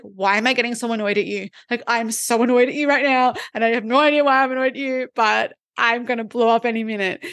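quick, exasperated inner voice, building to blow up; hammed-up annoyance, half joking; mock irritated rant. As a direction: rattle it off like you're barely holding it together. Acting out irrational annoyance.

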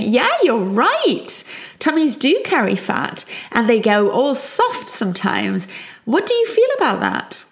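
put-on meet the child where they're at, lightly curious; upbeat parent. Parent answering child's tummy remark, upbeat and openly curious.

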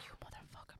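hissed whisper of a curse; mock whisper cursing covid under breath. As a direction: swear under your breath at the bad luck.

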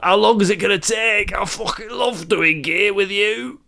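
lightly put-on London geezer, slow on the last line; lightly voiced London bloke; London geezer accent. Dead granddad impatient for gear, light London accent. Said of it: "From Lon".

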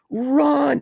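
high, drawn-out urgent cry; retold cry to flee. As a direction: call it out like a scared girl. Girl urging friends to flee.

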